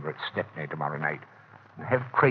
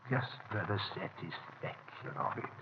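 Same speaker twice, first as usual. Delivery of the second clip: quiet relish; 10 dB quieter than usual. Acted. Villain savouring his plan.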